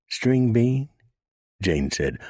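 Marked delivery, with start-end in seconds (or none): 0.1-0.9 impatient high question; clipped with irritation; annoyed. A narrator's reading. Jane annoyed at the interruption, impatient. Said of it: "annoyed at having her".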